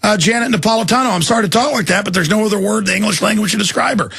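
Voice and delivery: real angry outburst. Real, not acted. Host rants to his guest about an official, angry outburst. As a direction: rant in real disgust at a public figure. Host erupts in profane tirade, then apologizes.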